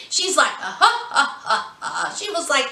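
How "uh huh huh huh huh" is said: mocking laugh. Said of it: "Valinell dying laughing".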